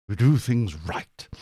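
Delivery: slow, silly put-on voice; hammed-up, slow patriotic pride; odd put-on Britishness. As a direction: draw it out with mock British propriety. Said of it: "I don't know what that was".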